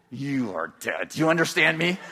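mother warning her son; stern mother. Retold or imitated. Mother threatens child.

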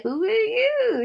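lightly imitated questioning hero; John. Hero questions the stranger he found, lightly imitated. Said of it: "And John is like".

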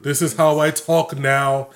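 lightly put-on snooty accent, drawn out; impression of a singer. Podcaster mocking how one member of a family of singers talks, affected. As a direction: lightly mimic an affected celebrity way of talking. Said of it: "I talk like one of those singers".

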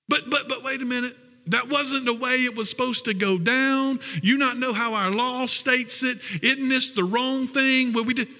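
high, sputtering mock indignation; flustered accusers. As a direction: sputter like a rule-bound official. Preacher voices flustered Pharisees.

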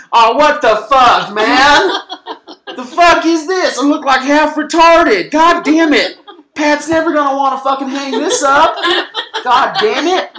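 very high, loud squealing rage; Billy the Kid raging at his ugly photo, very high and loud; hammed-up furious outlaw. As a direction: throw a tantrum over a bad photo.

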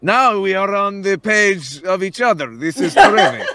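lightly voiced conspiratorial character; pleased schemer. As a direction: play an oddly spoken accomplice, delighted. Plays Durzik.

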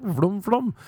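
high-pitched mock women's voice; put-on high voice, drawn-out endings; imagined keen women. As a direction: squeal it as an eager woman. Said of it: "And they're like".

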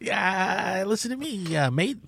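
softly put-on Irish accent; hint of a comic Irishman; mock Irish accent. Mock Irishman in commercial story.

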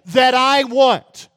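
slow, loud deliberate thief's line; voicing the thief. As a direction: press each word like a greedy thief. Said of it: "they have this mindset".

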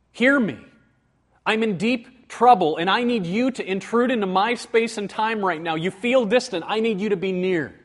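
urgent pleading to God; urgent plea. Shown as a demonstration. Preacher voicing a petition, urgent pleading. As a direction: beg God to come near now.

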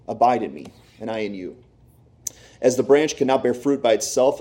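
measured, solemn Bible reading; scripture reading. Acted. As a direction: read the words of Jesus with weight, pausing. Reads John 15 aloud.

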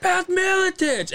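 reverent name drop. Retold or imitated. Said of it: "And I'm like".

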